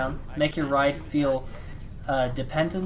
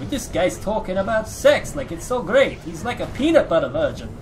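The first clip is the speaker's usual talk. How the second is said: mocking taunt; 5 semitones higher, 4 dB louder than usual. Mocking someone over ice cream.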